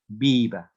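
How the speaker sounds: "viva" stressed on VI, loud; stress on first syllable. Shown as a demonstration. Teacher showing the class a grave word, "viva" stressed on VI. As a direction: lean on the VI of "viva". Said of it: "no se dice viva".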